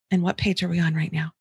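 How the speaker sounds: gently steer back to work; calm redirect. Shown as a demonstration. Parent calmly redirecting a whining child to the page. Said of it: "your tone of voice, super important".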